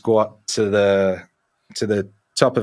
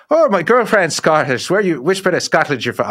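higher, louder, rough attempt at Northern Irish; failed Northern Irish accent; 7 semitones higher, 4 dB louder than usual. Punk guy asks about his girlfriend's home, attempted Northern Irish accent. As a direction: attempt a stranger's Northern Irish and not quite get it. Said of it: "I can't do the Nor-, Northern Irish".

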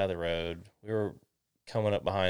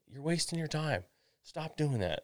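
higher-pitched imitation of a nagging dad; dismissive dad; 7 semitones higher than usual. Dad to his child fixing the trailer, dismissive. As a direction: act out dad dismissing the repair.

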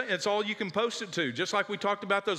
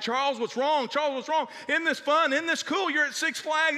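coaxing dad; 9 semitones higher, 3 dB louder than usual. Retold or imitated. Dad coaxing upset child.

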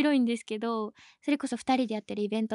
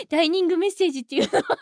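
earnest explanation; 3 semitones higher, faster than usual. Retold or imitated. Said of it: "すごい真面目でいい子だから".

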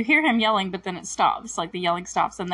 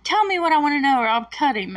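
imitating a threatening bully, louder and higher; menacing bully; 6 semitones higher, 4 dB louder, faster than usual. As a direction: play the knife-wielding bully threatening. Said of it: "And he's like".

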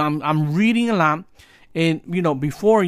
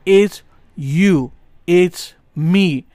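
yelling over helicopter; 5 dB louder, much slower than usual. Real, not acted. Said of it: "I'm sorry for the helicopter".

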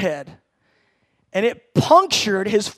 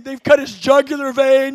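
inner panic; 3 semitones higher, 6 dB louder than usual. Retold or imitated. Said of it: "Inside, I'm going like".

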